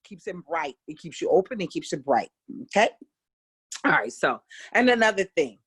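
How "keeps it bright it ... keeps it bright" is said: usual speaking voice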